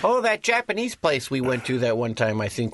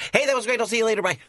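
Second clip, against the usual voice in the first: breezy goodbye; 8 semitones higher, much faster than usual. Pretend. Acts out a quickie goodbye.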